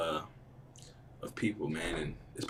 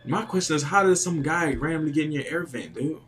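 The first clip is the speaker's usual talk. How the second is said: higher and louder, baffled; 6 semitones higher, 4 dB louder than usual. Real, not acted. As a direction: ask it in real disbelief. Baffled reaction to story.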